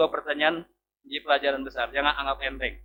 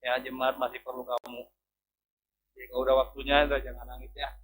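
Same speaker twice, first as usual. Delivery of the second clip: gentle reassurance; 4 semitones lower, 4 dB quieter, faster than usual. Retold or imitated. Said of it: "Kata Tuhan".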